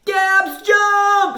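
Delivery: a loud, high yell; high, loud urgent shout; shouted warning. Acted. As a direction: yell to save her. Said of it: "shouted Alfie".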